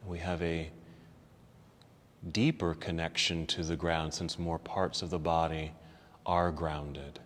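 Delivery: soft, low, calm yoga-teacher voice; guided relaxation. Real, not acted. Teacher settling students into the ground, calm and soft. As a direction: ease them softly into stillness, with long pauses.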